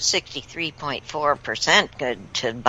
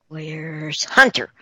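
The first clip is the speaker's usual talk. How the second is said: ordinary talk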